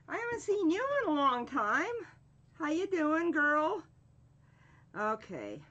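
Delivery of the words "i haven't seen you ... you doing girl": excited chatter. Real, not acted. Greeting a long-absent viewer.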